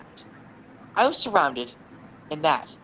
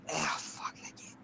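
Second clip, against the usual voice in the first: muttered aside; 10 dB quieter than usual. Real, not acted. Grumbled aside about the game.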